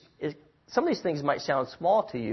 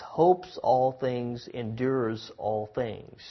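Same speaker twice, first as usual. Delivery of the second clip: very slow, measured reading of scripture; drawn-out reverent verse reading; much slower than usual. Acted. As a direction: lay each phrase down slowly like holy words.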